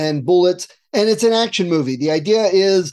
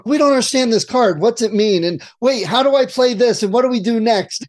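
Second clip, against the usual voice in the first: confused players; 4 semitones higher than usual. Retold or imitated. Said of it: "they start going".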